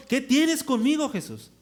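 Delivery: loud, high outcry, dropping at the end; great cry. Acted. Demoniac confronting Jesus, crying out in a great voice. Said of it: "exclamó a gran voz".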